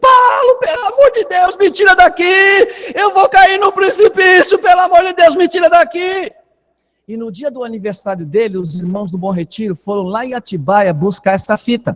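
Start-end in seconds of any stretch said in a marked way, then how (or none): 0.0-6.3 acted, very high, shrill screeching yell. Retelling a man on a rising camel begging to get down: imitating him screaming. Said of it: "ele gritando".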